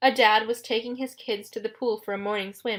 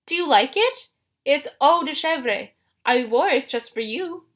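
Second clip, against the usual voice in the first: coy, high fake-bride voice; high, simpering disguise voice; falsetto; 5 semitones higher, 4 dB louder than usual. A narrator's reading. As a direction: flirt nervously in falsetto. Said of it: "in his falsetto voice".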